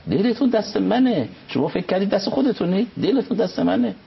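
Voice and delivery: God claiming the listeners' hearts, lightly voiced; voicing God. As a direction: speak as God, stressing دلتون each time. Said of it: "خدا میگه".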